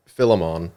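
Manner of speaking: Philemon as FILL-uh-mon; tentative pronunciation. Real, not acted. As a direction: say Philemon with a short first i, ending in "mon". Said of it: "Depending on how you choose to".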